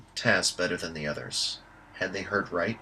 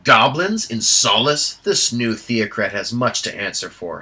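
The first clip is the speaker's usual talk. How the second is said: spat; 2 semitones higher, 8 dB louder than usual. Acted. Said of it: "Flint spat".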